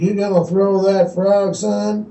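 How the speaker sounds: put-on slow drawling old angler. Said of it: "he turns around and he goes".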